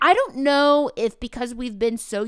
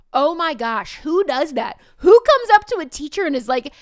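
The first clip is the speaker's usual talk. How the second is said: much higher and louder, rushing; amazed exclamation; 6 semitones higher, 10 dB louder than usual. Real, not acted. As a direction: burst out in disbelief, laughing it off. Teacher marvels at the kid.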